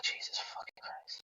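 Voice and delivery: exasperated whisper under the breath; hushed, grudging curse; begrudging. Acted. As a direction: whisper it as a fed-up aside. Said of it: "a very begrudging rescue".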